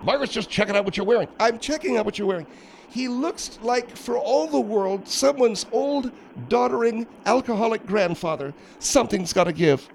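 high, soft, put-on woman's voice; disapproving Margaret. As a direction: draw out the withering description in a high voice. Margaret character describes Phil.

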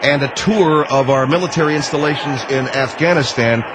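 heavily sarcastic thanks and well-wishing. Real, not acted. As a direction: lay on fake gratitude, voice lifted. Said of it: "I'm being sarcastic".

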